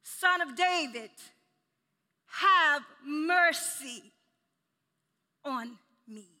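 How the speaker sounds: loud, high, drawn-out plea; desperate cry. Acted. Preacher as blind man begging Son of David, desperate cry. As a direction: cry out for mercy, stretching the key words. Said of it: "There was a desperation in his voice".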